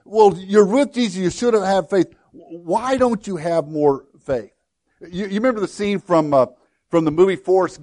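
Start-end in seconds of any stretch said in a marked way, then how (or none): 0.0-4.5 self-righteous. Retold or imitated. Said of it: "that self-righteous attitude".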